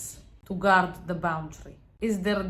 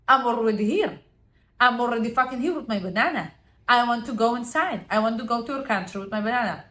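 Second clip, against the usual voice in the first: louder, fast indignant complaining; angry rant; 4 dB louder, faster than usual. Acted. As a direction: demand to be let in. Angry foreigner refused entry.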